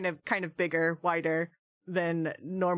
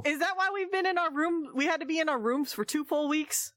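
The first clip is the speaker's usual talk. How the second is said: put-on old prospector; 8 semitones higher, faster than usual. Indignant question in character.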